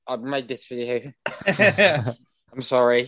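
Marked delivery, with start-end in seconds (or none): 1.5-3.1 very slow, drawn-out sorry; hammed-up insincere sorry; mock apology. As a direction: stretch it out, not meaning it. Apologising after a joke.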